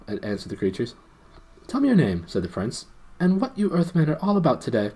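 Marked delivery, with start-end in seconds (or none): 1.7-2.2 high, loud princely demand; commanding prince. A narrator's reading. Prince interrogates the gnome, commanding. 3.2-4.9 raised, loud interrogation; commanding prince. A narrator's reading. Prince interrogates the gnome, commanding.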